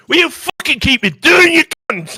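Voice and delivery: imitating an aggressive yell; mock shout. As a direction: bellow it like a furious Scot squaring up. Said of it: "He's going".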